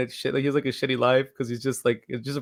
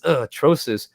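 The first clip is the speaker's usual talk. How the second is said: Guido character; 5 semitones higher, 6 dB louder than usual. Retold or imitated. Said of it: "the Guido guy where he goes".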